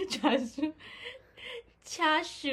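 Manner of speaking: 叉烧 with two long vowels; Japanese chashu. Shown as a demonstration. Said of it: "我听听看". (日语念法叉烧，两个长音)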